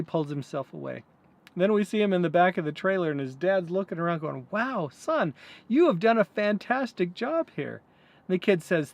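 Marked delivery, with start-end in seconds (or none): 4.5-7.8 impressed dad. Retold or imitated. Dad admiring son's trailer work.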